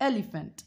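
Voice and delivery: এলিফ্যান্ট with an open "অ্যা" first vowel; English "e" sound. Shown as a demonstration. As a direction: say এলিফ্যান্ট starting with "অ্যা", not "ই". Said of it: "দেখো আমি কি বলছি?". (এলিফ্যান্ট উচ্চারণে শুরুতে "অ্যা" ধ্বনি)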